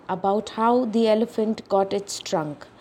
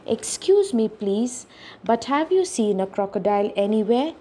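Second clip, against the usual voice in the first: polite. Acted. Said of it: "asked ever so politely".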